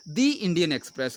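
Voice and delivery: दी with a long ee before Indian; the read as dee. Shown as a demonstration. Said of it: "ऊपर मैंने कैसे पढ़ा द को?".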